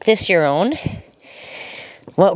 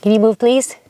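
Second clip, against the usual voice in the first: talking to the dog; 5 semitones higher than usual. Real, not acted. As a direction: coax the dog out of the way. Calling dog out of the way.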